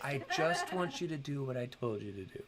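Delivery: lightly voiced pleading parent; exasperated parent. Parent reasoning with a child about obeying, lightly exasperated. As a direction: make the case like a mildly exasperated parent. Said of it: "as a parent".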